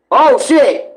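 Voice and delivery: ordinary delivery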